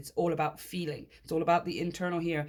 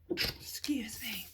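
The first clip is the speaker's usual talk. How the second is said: soft whispered excuse me; 5 semitones higher, 7 dB quieter, much slower than usual. Real, not acted. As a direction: whisper it, slow and apologetic.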